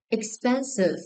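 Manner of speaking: "Expensive" with the middle syllable stressed; stress on second syllable. Shown as a demonstration. Teacher checking stress answers with class, second-syllable stress on "Expensive". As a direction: lean on the "pen" of "Expensive". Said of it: "Second syllable is stressed".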